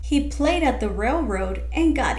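gentle storybook reading voice; picture book read aloud; reading to children. Acted. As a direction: read the story to young kids.

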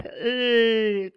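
L held as a plain humming l with no vowel; teacher showing the sound of l; letter sound. Shown as a demonstration. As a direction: hold the tongue up and let L ring alone. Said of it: "cuyo sonido fonético es".

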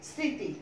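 স্মৃতি said as সৃঁতি, the ম silent, the first sound nasal. Shown as a demonstration. Teacher demonstrating স্মৃতি with a nasal সৃঁ. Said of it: "আরেকটা উদাহরণ দিচ্ছি আমি".

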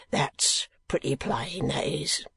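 slow rough-spoken keeper, lightly voiced; a plain working man, unhurried; lightly voiced asylum keeper. Keeper speaks.

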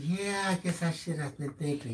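softly retold meek concession; quiet, non-combative. Husband gives in to his scolding wife, quiet. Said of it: "He was very quiet about it".

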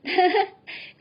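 high mocking giggle at him; a girl's scornful high giggle; mocking laugh. A narrator's reading. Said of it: "ก็หัวเราะ".

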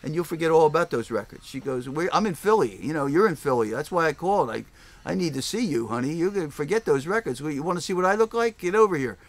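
a hint of a flirty caller coaxing him; mock seductive woman. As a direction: caller from Philly luring him away from his records. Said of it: "she's a hooker".

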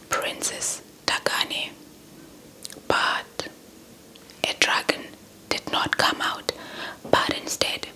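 plain reading voice

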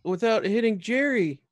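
high-pitched character voice; Lulu. Acted. Lulu worries about hitting Jerry, high character voice. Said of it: "She goes".

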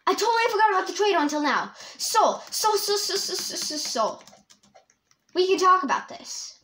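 high, loud, flustered panic; playful panic. Real, not acted. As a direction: stammer and bargain with your pursuer, high and loud. Chased by the traitor in game.

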